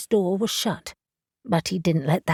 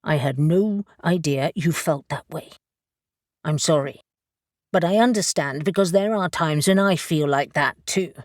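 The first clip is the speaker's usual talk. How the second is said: careful; 2 semitones lower than usual. Acted. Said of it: "He chose his words carefully".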